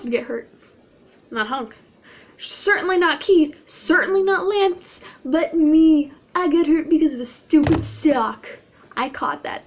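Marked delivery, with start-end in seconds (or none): 2.4-8.5 loud, raised, emphatic complaint; indignant complaint. Pretend. Griping to viewers about a sock fight injury, indignant. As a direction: complain loudly, punching each name.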